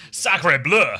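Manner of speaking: loud, mock French exclamation; French accent. Streamer retelling his outburst at a Paris bar, French accent. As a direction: put on your best French accent, fairly loud. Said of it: "in my best French accent".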